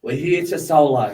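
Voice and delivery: put-on light New Zealand accent, laughing; lightly imitated New Zealand accent. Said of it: "Got a bit of a New Zealand accent happening there".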